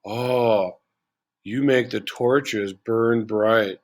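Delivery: slow, mock-smooth flirting line; cheesy pickup line. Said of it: "There's a good pickup line for you".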